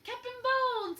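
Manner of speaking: high, loud hollering; pirates' cry. Acted. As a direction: bellow it like a crew of pirates. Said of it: "The pirates took up the cry".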